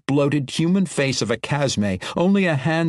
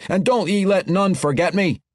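a higher dwarf brogue, resigned; resigned dwarf farewell; 6 semitones higher than usual. Acted.

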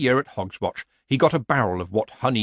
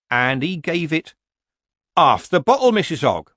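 higher, louder villager voice playing innocent; nervous villager; 6 semitones higher, 6 dB louder than usual. A narrator's reading. Villager pretending innocence to Nanny Ogg. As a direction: feign surprise like a bad amateur actor.

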